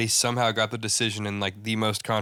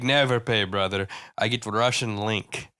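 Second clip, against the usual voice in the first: slow out the last words in a light mock Russian accent; lightly put-on Russian accent; deadpan Russian-accent impression; imitating Khabib; slower than usual. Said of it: "He's like".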